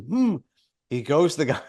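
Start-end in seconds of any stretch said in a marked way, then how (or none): 0.0-0.4 high "hmm" as a signal; pointed mock hum. Woman pointing out the peeper, high hum. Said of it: "she points at him".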